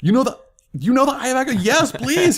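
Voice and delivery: very high, loud, thrilled squeal; excited squeal. Retold or imitated. Overjoyed squeal to Grant's offer of the prop. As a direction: squeal with fanboy delight at the offer.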